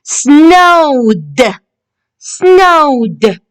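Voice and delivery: "Snowed" drawn out, ending in a released d; teacher's careful "Snowed", ed said as d; final d sound. Shown as a demonstration. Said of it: "You can hear the d sound".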